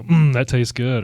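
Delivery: slow, drawn-out mock relish; acted savoring. Parent unaware the kids are watching, savoring. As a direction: linger on an appreciative mm. Acting out parent savouring a drink.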